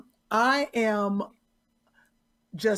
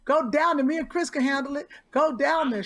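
urging; 3 semitones higher than usual. Real, not acted. Urging co-host to go downstairs.

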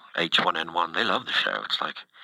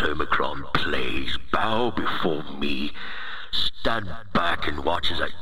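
booming demon lord. Acted. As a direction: play a self-important virus overlord. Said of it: "It's not my real voice".

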